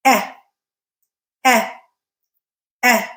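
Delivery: isolated vowels said slowly in threes; vowel drill. Shown as a demonstration. Teacher models vowel sounds for ear training. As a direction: model each vowel three times for the listener. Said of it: "I'm going to say just the pure vowel sound".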